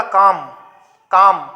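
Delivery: "काम" closed on m, no vowel after it; isolated demo of "काम" without a final a; final vowel silent. Shown as a demonstration. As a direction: end "काम" with lips shut on the m. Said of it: "नहीं आ रही ना".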